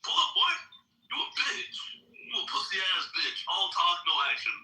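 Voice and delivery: taunting shout. Real, not acted.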